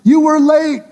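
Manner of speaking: very high, loud mock wail; shrieky, drawn-out acted accusation; hammed-up wailing protest. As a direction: crowd at the peak of its complaint. Crowd protests again, more worked up.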